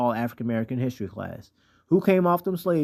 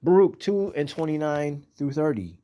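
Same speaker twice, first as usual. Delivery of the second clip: scripture reading; 3 semitones higher than usual. Acted. Reads scripture aloud emphatically.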